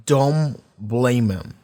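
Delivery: slow, halting plea; a retold last request, dragged out; dying plea. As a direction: draw it out slowly, word by word. Voicing a dying mother's plea.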